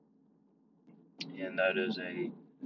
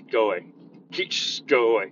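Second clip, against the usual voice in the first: louder, firm go away; loud dismissal; 2 semitones higher, 6 dB louder than usual. Retold or imitated. Teacher sending a rude kid off, louder. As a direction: bark go away at them.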